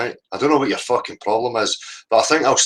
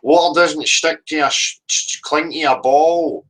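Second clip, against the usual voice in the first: mocking quote; 6 semitones higher than usual. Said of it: "he always pushes this".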